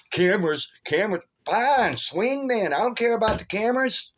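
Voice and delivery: high, worked-up goading; retold heated dare. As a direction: brush off the warning and egg him on. Retold quarrel, daring despite cameras.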